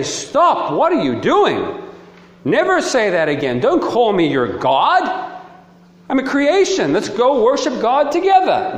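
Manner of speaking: lightly acted, urgent objection with high-pitched jumps; alarmed protest. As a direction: halt someone with mild mock alarm. Acted hypothetical protest by Jesus.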